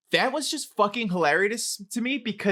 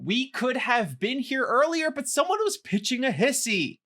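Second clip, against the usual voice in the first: sing-song, higher-pitched quoted line; quiz phrase in character; 4 semitones higher than usual. Acted. Host reads quiz phrase to friend, lightly acted. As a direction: lilt it up toward the end.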